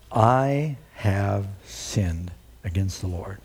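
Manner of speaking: slow, low confession; a broken, slow admission; contrite confession. Retold or imitated. David confessing his sin to Nathan, slow and low. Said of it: "David said to Nathan".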